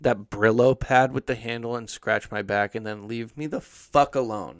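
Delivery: put-on slow, whiny, laughing teen-girl sneer; lightly voiced bratty thirteen-year-old girl. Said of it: "sound like a bitchy thirteen-year-old girl".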